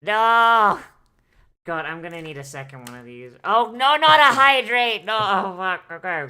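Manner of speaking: high loud wail of protest; loud dismay. Real, not acted. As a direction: cry out no in dismay. Dismayed reaction to hydrate prompt.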